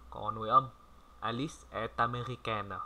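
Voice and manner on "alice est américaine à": slow and clear. Shown as a demonstration. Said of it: "Đó là tốc độ chậm mà rõ".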